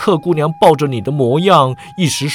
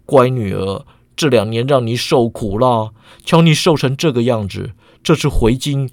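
lower, softer gentle comfort; soft sighing tenderness; 4 semitones lower than usual. Acted. Godfather cradling his weary daughter, soft and tender. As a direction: soothe her softly, with a sigh. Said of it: "轻声叹道".

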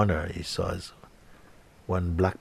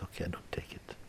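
much softer unvoiced reply; hushed agreement; 14 dB quieter than usual. The seeker softly gives in to the raven, whispered. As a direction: give in under your breath.

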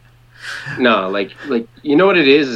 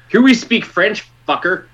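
rude local; 7 semitones higher than usual. Retold or imitated. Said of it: "which is a French way of saying".

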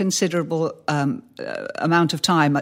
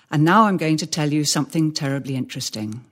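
exaggerated pausing; 3 semitones lower than usual. Shown as a demonstration. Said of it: "I'm exaggerating slightly for effect".

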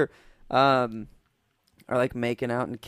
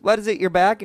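alarmed question; 7 semitones higher, 6 dB louder than usual. Retold or imitated. Wife asks in alarm.

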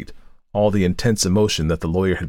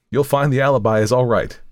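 cheerful; 6 semitones higher, 4 dB louder than usual. A narrator's reading. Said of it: "he said cheerfully".

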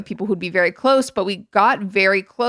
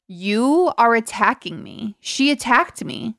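mock Housewife line; 2 semitones higher, slower than usual. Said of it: "one of my favorite Real Housewife phrases".

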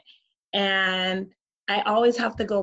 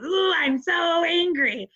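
kid cartoon tiger; 9 semitones higher, slower than usual. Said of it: "He goes".

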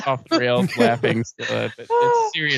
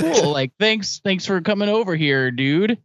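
patronizing; 3 semitones higher than usual. Retold or imitated. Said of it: "it sounds super patronizing".

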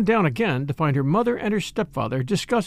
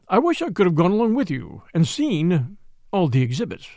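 mildly wistful. Acted. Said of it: "His tone was wistful and childlike".

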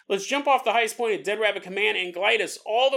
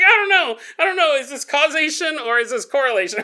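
mock pondering; 6 semitones higher, 5 dB louder than usual. Mock-pondering while kicking.

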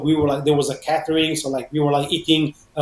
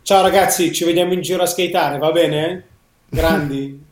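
Italian sign-off. Real, not acted. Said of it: "do you wanna spit some Italian".

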